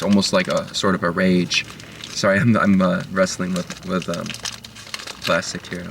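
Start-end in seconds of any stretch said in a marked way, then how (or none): 2.1-5.9 talking while fiddling with food; eating while talking. Real, not acted. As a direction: mouth busy with a snack. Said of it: "not right for me to eat while talking".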